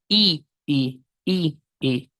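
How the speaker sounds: "I, i" short lax, then longer. Shown as a demonstration. Teacher contrasting vowel lengths for students. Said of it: "el pronombre it".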